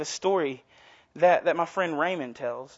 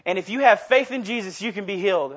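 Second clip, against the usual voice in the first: mock televangelist. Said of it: "he started to say".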